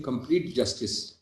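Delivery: "complete justice" slowed and softened, each word weighted; stress on complete justice. Real, not acted. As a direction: linger slowly on "complete justice". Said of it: "I emphasize the word complete justice".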